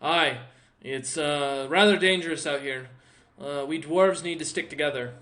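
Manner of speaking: a hint of a hearty dwarf; dwarf urging the party to stick together; dwarf comrade.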